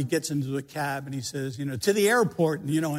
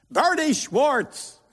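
shrill, very high, loud exasperated yelling; 11 semitones higher, 5 dB louder than usual. Retelling how she yelled at you for not knowing, retelling her exasperated yell. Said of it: "she yelled at me like like I should know this".

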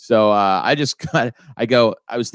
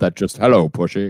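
put-on, lilting Scottish accent; 3 semitones lower than usual. While naming the best Bond on a podcast, show his way of speaking in a Sean Connery voice, Scottish lilt. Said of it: "that Scottish lilt".

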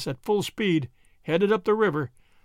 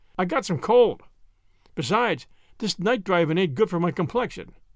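plain

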